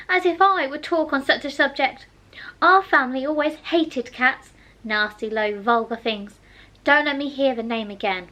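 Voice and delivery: loud, offended tirade; indignant mouse. Acted. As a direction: spit out disgust at cats.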